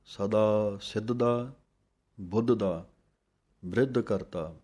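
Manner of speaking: ਸਿੱਧ ਦਾ, pause, ਬੁੱਧ ਦਾ, pause, ਬ੍ਰਿਧ ਕਰਤਾ set apart; pauses between phrases. Shown as a demonstration. Teacher shows where to pause in the verse, clear breaks. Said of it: "ਥੋੜ੍ਹਾ ਜਿਹਾ ਰੁਕ ਕੇ ਫਿਰ ਬੋਲਣਾ ਹੈ".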